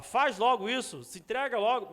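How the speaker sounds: a touch of irritation. Acted. God losing patience with his people, mildly irritated. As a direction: push it out like an annoyed command. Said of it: "me parece que ele tá um pouco irritado".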